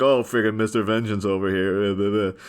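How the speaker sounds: slow, mildly sneering imitation; mocking criminal. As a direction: poke fun at him with a drawn-out jeer. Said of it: "some of them are mocking him".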